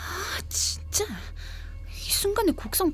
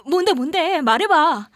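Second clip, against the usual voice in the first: higher, louder, insistent urging; eager prodding; 6 semitones higher, 6 dB louder than usual. Acted. Friend pushing for the juicy story, eager prodding. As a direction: press for the story impatiently.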